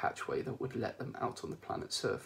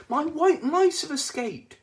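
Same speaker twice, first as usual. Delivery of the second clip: higher, slower alarmed woman; high worried Trillian; 11 dB louder, slower than usual. Acted. Trillian bursting in to the crew, high and worried. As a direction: fret about the mice, pitched up.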